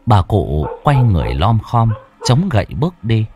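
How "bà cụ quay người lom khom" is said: plain reading voice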